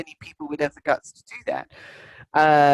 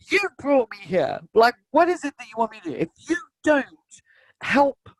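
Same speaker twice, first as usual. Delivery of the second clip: raised, fast, exasperated ranting at Spirit; hammed-up demand, a toddler stamping her foot; retold tantrum; 4 semitones higher than usual. Woman shaking her fist at Spirit in a tantrum, angry. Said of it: "I had a tantrum".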